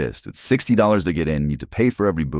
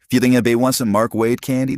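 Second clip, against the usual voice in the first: lightly voiced, higher and louder, self-pitying joke; a bored artist jokingly peddling candy, pitched up; mock plaintive Mark Waid; 7 semitones higher, 5 dB louder than usual. Retells Mark Waid's idle joke.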